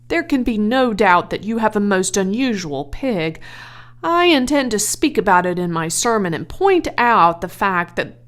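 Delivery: a pastor musing on his sermon; earnest minister. Acted.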